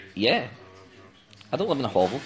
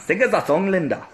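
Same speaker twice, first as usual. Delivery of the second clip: attempted Welsh accent. Shown as a demonstration. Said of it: "like, Indian".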